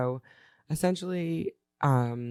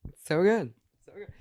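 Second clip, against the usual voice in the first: excited; 7 semitones higher, 4 dB louder than usual. Real, not acted. Raving about chocolate.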